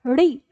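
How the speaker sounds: री with a curled-back tongue; retroflex demonstration. Shown as a demonstration. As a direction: show री made at the palate. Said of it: "मूर्धा से करना है". (री का मूर्धा से उच्चारण)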